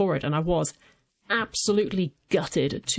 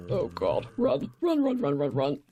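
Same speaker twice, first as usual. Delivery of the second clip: being chased; 3 semitones lower than usual. Real, not acted. Fleeing a goat.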